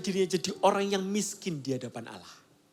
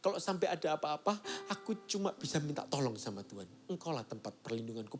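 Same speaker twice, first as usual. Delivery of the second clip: low, much softer, a broken plea; soft fragile prayer; 6 semitones lower, 11 dB quieter than usual. Retold or imitated. Preacher voicing frightened David praying softly. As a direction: pray it barely above a breath, shaken. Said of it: "Dia ngomong".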